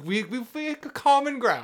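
high, loud squeal of astonished agreement; mock amazement. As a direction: stammer it out high, as if overjoyed to agree.

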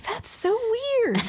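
high, slow, incredulous; weirded out. Retold or imitated. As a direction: drag it out in disbelief. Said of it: "I was like".

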